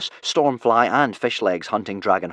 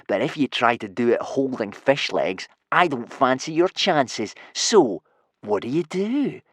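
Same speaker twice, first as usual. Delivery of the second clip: purring menace; 3 semitones higher, 3 dB louder than usual. Acted. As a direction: toy with the victim, stretching words. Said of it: "purred Snotlout".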